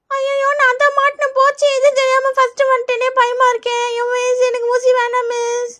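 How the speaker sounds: put-on whiny little-kid lament; scared child, dismayed. Pupil caught first in line pleads with teacher, scared whining. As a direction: wail lightly like a trapped pupil.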